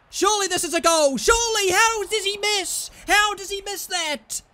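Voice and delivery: high, loud cry of disbelief at the miss; can't believe he missed it, pitch shooting up. Real, not acted. Gamer watching his striker miss, disbelieving cry. Shocked miss in front of goal.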